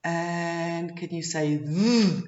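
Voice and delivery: slow, careful teacher voice; slow and deliberate modeling; slow exaggerated speech modeling. Shown as a demonstration. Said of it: "I want you to focus when you say".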